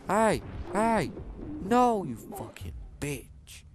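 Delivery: loud shouted protest, dragged out; angry shout. Real, not acted. Gamer spotted by enemy, angry shout. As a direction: yell at the enemy.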